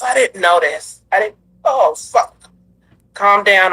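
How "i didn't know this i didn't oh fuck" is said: crying. Real, not acted. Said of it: "I'm upset a little bit".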